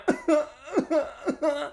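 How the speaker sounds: high imitated sobs; mock crying. Imitating the crying woman in the corner, mock sobs. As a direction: fake crying in short, high bursts. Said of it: "and she's crying".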